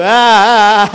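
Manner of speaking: loud, exclaimed wah; expressive exclaim to show love; excited wah. Shown as a demonstration. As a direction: burst out with delight at a friend. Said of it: "coba bilang sama temanmu".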